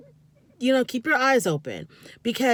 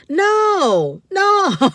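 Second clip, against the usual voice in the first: sharp rising no, no, much louder; loud exasperated no; 10 semitones higher, 9 dB louder than usual. Real, not acted. Vlogger shouting at the boyfriend to stop touching his upset girlfriend, loud and exasperated. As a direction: shout him off her.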